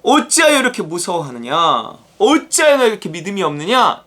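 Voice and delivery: mildly acted reproach; preacher voicing a stern question; scolding rebuke. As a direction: scold the disciples with measured force. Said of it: "꾸짖으시면서 이렇게 말해요".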